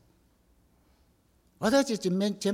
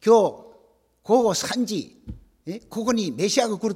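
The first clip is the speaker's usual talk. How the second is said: calling out; 2 semitones higher, 4 dB louder than usual. Retold or imitated. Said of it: "と言ったら".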